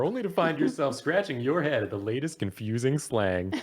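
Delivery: newscaster voice. Shown as a demonstration. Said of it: "read this article in a newscaster voice".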